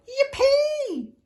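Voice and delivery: very high, loud yippee; high loud gleeful yelp; joyful cry. A narrator's reading. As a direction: cheer it with delight. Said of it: "the T's cried out".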